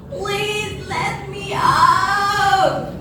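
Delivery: high, drawn-out cry for help. Acted. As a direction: plead to be let out, stretching the words. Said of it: "cried grandmother".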